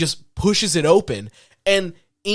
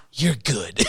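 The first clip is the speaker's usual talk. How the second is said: cheeky; 7 semitones lower, 5 dB quieter than usual. Retold or imitated. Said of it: "does the cheeky".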